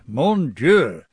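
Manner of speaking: mock astonished exclamation with a swooping tune; imitated exclamation. Friend reacting to the new Pope's election, imitated exclamation. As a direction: exclaim it in French, as if amazed. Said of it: "Margo exclaimed".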